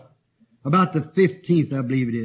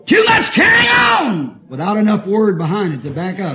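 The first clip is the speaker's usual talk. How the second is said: preaching shout; 7 dB louder than usual. Real, not acted. Preacher's emphatic rebuke.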